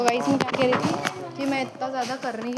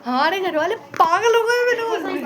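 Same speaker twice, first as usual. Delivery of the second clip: excited; 5 semitones higher, 5 dB louder than usual. Real, not acted. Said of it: "bat in the house".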